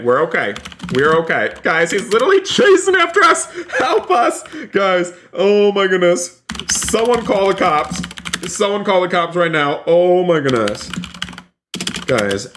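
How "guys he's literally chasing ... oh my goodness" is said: high-pitched squealing alarm; hammed-up terror, voice shooting up; play-acted panic. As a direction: scream for help as if being chased. Chased by a giant baby.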